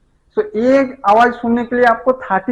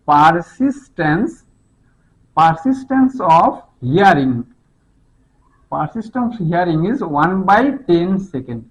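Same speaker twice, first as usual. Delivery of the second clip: very slow, measured enunciation; slow dictation; 3 semitones lower, much slower than usual. Shown as a demonstration. Teacher giving students the key term, slow dictation. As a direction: spell it out slowly for note-takers.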